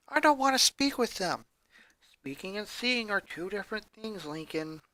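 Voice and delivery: quiet late-night voices; hushed talk. Acted. Two kids talking softly on the couch at night.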